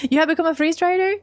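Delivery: high, fast surprised question. Acted. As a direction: blurt it out, amazed.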